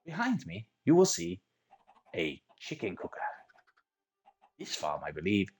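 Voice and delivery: mock German accent, drifting in and out; put-on German accent. Minecraft tutor explaining a chicken farm in mock German accent. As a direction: play a German engineer with a lightly put-on German accent. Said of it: "I don't know where my accent is going".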